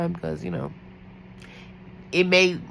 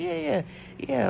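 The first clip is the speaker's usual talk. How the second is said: eager agreement; 9 semitones higher, 4 dB quieter than usual. Retold or imitated.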